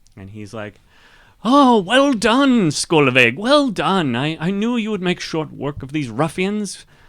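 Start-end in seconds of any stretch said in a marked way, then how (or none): 1.4-6.9 very high, loud, cheerful, bouncy voice. Narrator voicing the friend Haydn walking out behind her: cheerful Haydn voice. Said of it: "you hear the cheerful voice of your friend Haydn".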